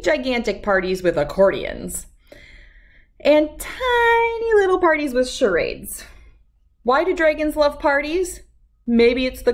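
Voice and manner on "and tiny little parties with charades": tiny voice. A narrator's reading. Tiny voice for tiny parties.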